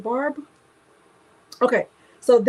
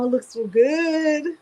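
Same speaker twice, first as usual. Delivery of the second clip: laughing delight; 5 semitones higher, 3 dB louder, much slower than usual. Real, not acted. Admiring her logo.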